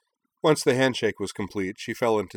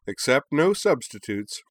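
high, louder squeaky dragon; little dragon voice; 6 semitones higher, 5 dB louder than usual. Acted. Little dragon Noll perched on her head, high chirp. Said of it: "said Noll".

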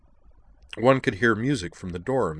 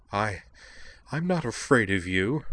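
haughty; 3 semitones higher than usual. Acted. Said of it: "she said haughtily".

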